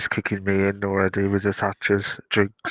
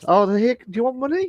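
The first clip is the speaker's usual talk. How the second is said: squeaky high mock salesman; high, chirpy send-up of a greedy company; 13 semitones higher, 3 dB louder, faster than usual. Mocking a greedy company, squeaky high voice.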